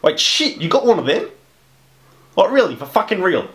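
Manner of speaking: can't believe the luck, voice jumping up; excited disbelief. Acted. Ghost hunter hearing of his first real ghost, excited and high.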